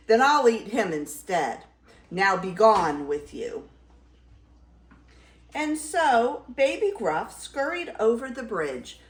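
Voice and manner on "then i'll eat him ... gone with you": loud troll command; crying out. Acted. Troll sending Baby Gruff away, loud cry. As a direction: dismiss the goat loudly. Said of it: "he cried".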